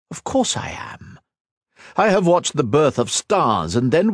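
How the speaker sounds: a lightly voiced immortal villain, scornful; villain Shinzan mocking Ethan's sacrifice, lightly voiced and scornful; cold villain. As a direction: sneer down at a mortal, unhurried. Shinzan boasts of the cosmos.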